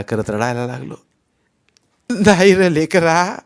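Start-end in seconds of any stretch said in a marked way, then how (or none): 2.1-3.4 slow, tearful, higher plea; slow weeping grandmother's voice; grandmother crying. A narrator's reading. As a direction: comfort the child while crying. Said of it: "आजी रडतच म्हणाली".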